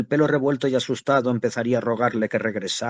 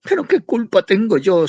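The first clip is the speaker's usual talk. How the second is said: higher, tearful protest; mild tearful plea; 9 semitones higher, 5 dB louder than usual. A narrator's reading. Mother starting to cry at her son, a mild tearful plea. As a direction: plead through rising tears. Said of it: "se echó a llorar".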